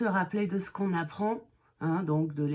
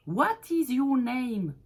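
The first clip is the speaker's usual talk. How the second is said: slow model question; 4 semitones higher, 3 dB louder, slower than usual. Shown as a demonstration. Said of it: "Quoi est ton nom?".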